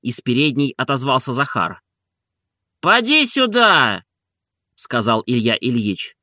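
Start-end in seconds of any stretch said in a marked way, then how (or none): 2.8-4.0 high, slow summons; calling out. A narrator's reading. Oblomov calling Zakhar from the hall, high summons. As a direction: call him in from the hall.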